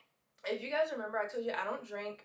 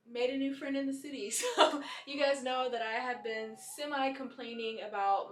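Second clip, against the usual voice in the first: laughing; 3 semitones higher, 5 dB louder than usual. Real, not acted. Laughing about new friend.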